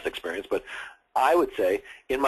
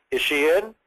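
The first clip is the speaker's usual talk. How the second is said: firm, authoritative question, raised and punched; 5 semitones higher, 4 dB louder than usual. Shown as a demonstration. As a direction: ask it like you're in charge. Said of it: "in a firm tone of voice".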